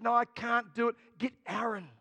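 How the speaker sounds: a hint of Moses making excuses. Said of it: "but Moses said".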